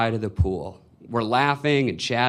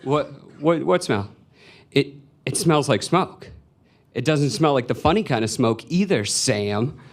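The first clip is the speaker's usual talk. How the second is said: lightly voiced mother, halting and repetitive; a hint of a mom nosing out trouble; suspicious mom; 3 semitones higher than usual. Mom questioning Sam in the car, suspicious.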